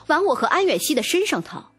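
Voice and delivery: ordinary delivery, nothing marked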